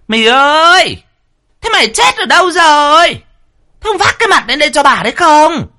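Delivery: very high, loud yelling down the yard; shrieking call. Acted. First wife shrieking down to the servant quarters, very high and loud. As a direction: scream for the maid across the courtyard.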